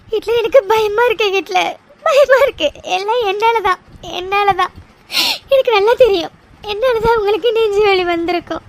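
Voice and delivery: broken, weeping guilt; tearful self-blame. Acted. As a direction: sob out that it's all her fault.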